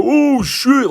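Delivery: very high-pitched, drawn-out yelp; mock panicked scream. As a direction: imitate startled teens about to bolt. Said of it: "Like, we started screaming".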